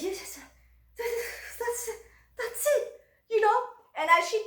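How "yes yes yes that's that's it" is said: much higher, rising gleeful yeses; excited yes. Retold or imitated. About the fifty-dollar invitations, gleeful and higher. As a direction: bubble up with delight.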